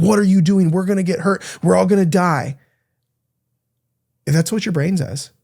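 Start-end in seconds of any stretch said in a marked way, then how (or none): 0.0-2.6 hammed-up panicky caveman dad; dad yanks his daughter back into the cave, mock scolding. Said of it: "scolds her, like".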